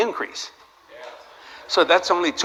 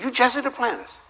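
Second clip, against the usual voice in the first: excited fan; 10 semitones higher than usual. Retold or imitated. Strangers recognize the preacher.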